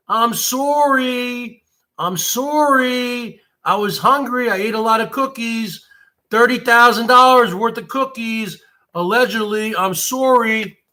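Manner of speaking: mock apology. Mocking a disgraced person's apology.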